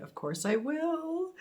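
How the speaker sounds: high, drawn-out rising reply; stretched-out, high singsong assurance. Real, not acted. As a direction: let it glide way up, slowly. Answering the card's hope, delighted.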